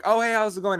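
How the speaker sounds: high, chirpy hello; high, cheery hello to a date he has just met; bright hello. Retold or imitated. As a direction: greet a new date with a lift. Meeting a date.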